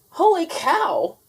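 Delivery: high, loud, slow holler. A narrator's reading. Manny the cook hollering, high slow and loud. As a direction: holler it across the diner. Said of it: "hollered Manny the cook".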